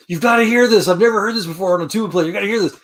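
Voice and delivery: high, loud and thrilled; excited band director. Retold or imitated. Director to friend on phone, high excited gushing. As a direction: gush down the phone, amazed.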